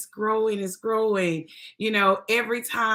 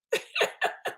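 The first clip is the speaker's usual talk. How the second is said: soft emotional laugh; 6 dB quieter than usual. Real, not acted. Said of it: "I'm not gonna get emotional".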